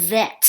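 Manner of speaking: "vet" pronounced carefully; clear pronunciation. Shown as a demonstration. English teacher showing learners how to pronounce "vet", clearly. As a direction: model the word "vet" clearly. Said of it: "ออกเสียงนะคะ vet".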